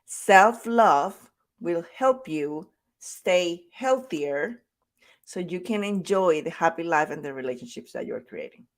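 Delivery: "Self-love" stressed, then "will help you stay healthier" drawn out slowly; slow emphatic repeat. Shown as a demonstration. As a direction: say it again, slowly, pressing each key word. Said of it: "I'm gonna say it again".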